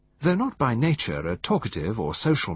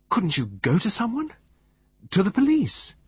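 high pleading; 12 semitones higher than usual. A narrator's reading. Pamela pleading with Poirot.

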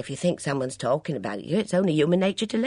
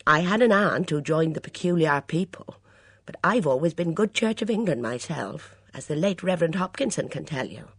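louder, offended complaint; sulky waitress; 5 semitones higher, 7 dB louder than usual. A narrator's reading. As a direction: demand an explanation, affronted and sulky. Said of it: "said the sulky waitress".

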